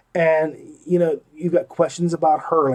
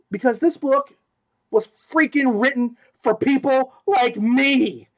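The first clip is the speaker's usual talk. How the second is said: excited; 7 semitones higher than usual. Real, not acted. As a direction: gush over it, drawing it out. Gushing about a book made for him.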